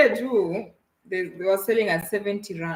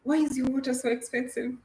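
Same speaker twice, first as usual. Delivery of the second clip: raised-pitch puzzled tourist question; tourist asking; 7 semitones higher than usual. Pretend. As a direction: ask like a bewildered tourist. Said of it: "let us role play".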